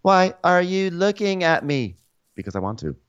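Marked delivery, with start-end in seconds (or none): 0.0-2.0 imitating Mary. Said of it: "So Mary is like".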